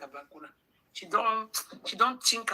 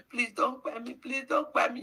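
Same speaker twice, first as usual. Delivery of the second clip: mock begging; 5 semitones higher than usual. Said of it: "you were begging for your life".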